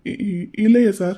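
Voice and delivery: slow nervous stammer on இ-, இ-, இல்லையே; stammering denial. Acted. Caught out when asked about the mother, stammering nervously. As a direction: trip over the first sound before இல்லையே.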